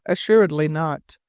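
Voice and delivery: plain reading voice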